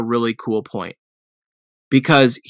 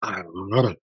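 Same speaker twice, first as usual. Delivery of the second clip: low, soft dog-like growl; animal growl; 6 semitones lower, 7 dB quieter than usual. Real, not acted. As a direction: grumble it like a dog. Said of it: "made, like, a dog noise".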